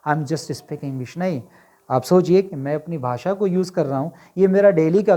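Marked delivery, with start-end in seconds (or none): 0.0-1.2 mock anxious thought. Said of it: "ये मत सोचो कि मैं इंग्लिश बोल रहा हूँ".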